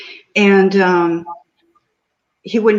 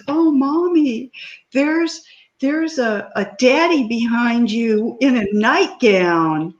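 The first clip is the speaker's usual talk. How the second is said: a hint of a little boy, higher; light child voice; 5 semitones higher than usual. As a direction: lightly voice the small son, pitch up. Mother voices her three-year-old son.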